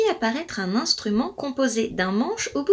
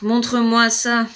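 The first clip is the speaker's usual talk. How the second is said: sighed. Acted. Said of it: "soupira la fée".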